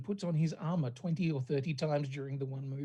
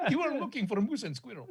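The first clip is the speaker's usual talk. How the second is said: cartoon Russian accent; 4 semitones higher, faster than usual. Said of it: "very Boris and Natasha sounding".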